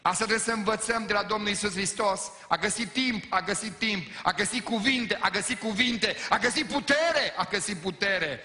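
loud, high, fervent preaching; full-force preaching. Acted. Pastor pleading with the congregation, loud fervent preaching. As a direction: preach it out to the whole church.

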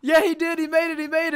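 loud, high no; shout. Real, not acted. Reacting to the race, loud shout. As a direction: blurt it out in dismay.

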